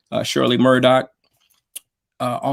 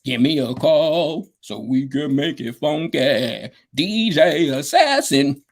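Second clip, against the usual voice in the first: slow, drawn-out imitation of Roger's voicemail; lightly voiced laid-back voicemail; imitating Roger; much slower than usual. Teller imitating Roger's voicemail message, slow and laid-back. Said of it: "That's how he talked".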